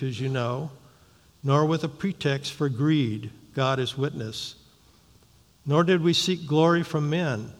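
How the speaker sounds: measured, deliberate Bible reading voice; formal reading of scripture. Acted. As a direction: read the verses to the congregation with weight. Reads the scripture passage aloud.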